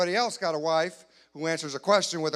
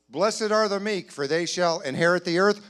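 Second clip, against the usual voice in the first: mock preacher Jesus; 5 semitones higher, 4 dB louder than usual. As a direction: intone it like a holy sermon. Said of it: "Could you see Jesus if he had a wife".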